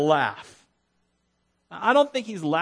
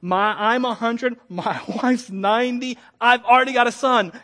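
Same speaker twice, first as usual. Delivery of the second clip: protesting Abraham; 4 semitones higher, 5 dB louder than usual. Acted. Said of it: "He's going back to his default mode".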